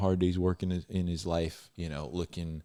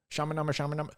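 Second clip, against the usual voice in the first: mock tongues chant; 8 semitones higher, much faster than usual. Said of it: "hooting, hollering, speaking".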